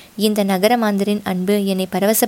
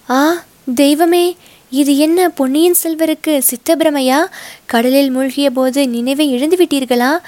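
louder, alarmed cry; 4 semitones higher than usual. Acted. Rakkammal crying out to the prince before the crowd, higher and louder. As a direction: wail it out in dismay, voice climbing. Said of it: "இன்னும் உரத்த குரலில்".

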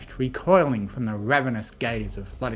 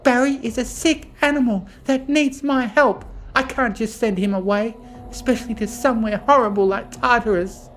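high, loud distressed pleading; protesting; 11 semitones higher, 4 dB louder than usual. A narrator's reading. Fluttershy refusing to send Barry away, protesting. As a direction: plead urgently, pitched way up. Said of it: "Fluttershy protested".

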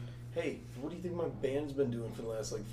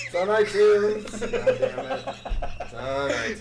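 laughing shout; 9 semitones higher, 9 dB louder, slower than usual. Real, not acted.

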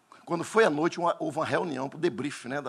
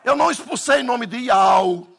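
loud, higher insistent denial; preaching shout; 7 semitones higher, 8 dB louder than usual. Real, not acted. Pastor shouts to the congregation about the name. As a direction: hammer it home to the church.

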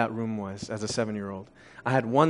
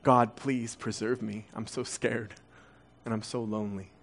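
soft retold prayer; 4 semitones lower, 8 dB quieter than usual. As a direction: pray softly, recalling a lonely child's fear. Retold childhood prayer, scared and lonely.

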